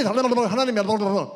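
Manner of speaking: loud rolling mock-prayer babble; fake speaking in tongues. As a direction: imitate tongues at speed to disguise cursing. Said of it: "막 방언한 사람 줄".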